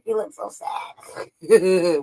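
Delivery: very slow whispered pity; slow theatrical whisper; drawn-out whisper. Real, not acted. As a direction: stretch every word out in a whisper.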